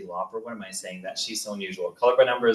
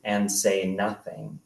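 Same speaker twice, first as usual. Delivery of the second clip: measured literary narration with deliberate pauses; memoir reading. A narrator's reading. Author reads childhood memoir about Darren, measured narration. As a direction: read it out to a live audience, phrase by phrase.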